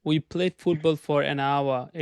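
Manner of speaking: "we played football for an hour" in one breath, no pauses; linked, no gaps. Shown as a demonstration. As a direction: glide through the phrase without stopping. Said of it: "এক নিঃশ্বাসে বলবো".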